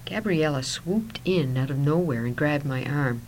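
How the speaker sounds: usual speaking voice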